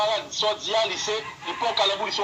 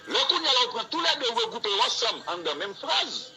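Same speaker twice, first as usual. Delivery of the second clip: laughing repeat; 4 semitones higher than usual. Shown as a demonstration. Teacher repeats the point to class, laughing. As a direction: chuckle while saying it again.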